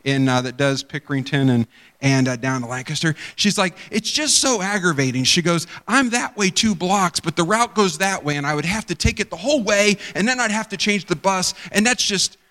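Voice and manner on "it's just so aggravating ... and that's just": bothered. Retold or imitated. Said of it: "she's bothered at that".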